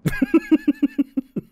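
high, rapid giggling; helpless giggle. Real, not acted. Player cracks up at the game, high giggling. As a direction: giggle away in a high pitch.

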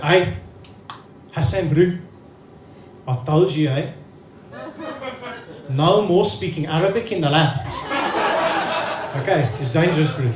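a light South African lab manager; half-hearted South African scolding; South African accent. Retold or imitated. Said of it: "who's South African".

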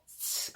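"스" said as a ch consonant; CH sound demonstrated. Shown as a demonstration. Teacher showing learners the CH ending, CH sound demonstrated. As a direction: model "스" as a drawn-out ch release. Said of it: "씨에이치 발음 있죠?".

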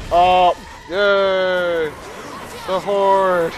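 loud mock cheer; sarcastic cheer. Real, not acted. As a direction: cheer it with irony. Sarcastic about horde.

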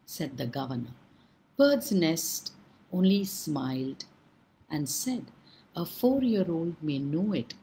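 unhurried storyteller reading a fable aloud; story narration. A narrator's reading. Storyteller telling children a fable, calm and measured. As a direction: draw listeners into an old tale.

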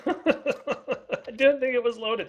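high-pitched, laughing imitation of a friend's excuse; laughing mock quote. Player throwing friend's rocket excuse back, laughing mockery. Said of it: "he says".

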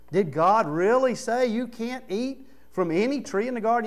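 mild mock tempter, coaxing the doubt; Satan's question. Satan tempting Eve, a hint of a sly voice. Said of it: "You know that's how he said it".

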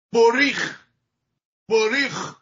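بوریخ اتو said slowly, with an o ending; Ashkenazi form. Shown as a demonstration. Teacher demonstrating the Eastern European form.

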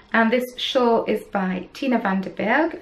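designer's name in a German accent, slowly. Real, not acted. Knitter names the shawl designer in a German accent. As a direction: say van den Berg the German way, slowly. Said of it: "that was a very German accent".

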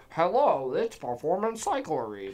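slow mock recorded greeting in a put-on voice; Trip. Mimicking the boss's bike shop voicemail, put-on voice. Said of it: "That's how he sounds".

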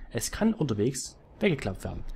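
unvoiced whispered reading of the game text. Streamer reading weapon text to viewers, in a whisper. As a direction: whisper the item description.

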